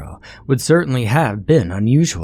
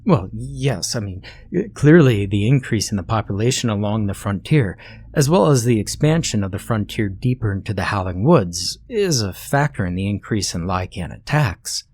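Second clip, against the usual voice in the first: conceding. Acted. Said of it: "Thorogood conceded".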